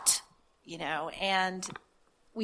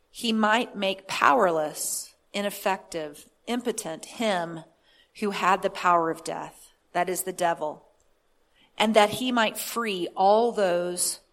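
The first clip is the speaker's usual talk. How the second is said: scripture reading. Real, not acted. Preacher reading the Amplified to listeners, scripture reading. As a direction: read the verse out phrase by phrase.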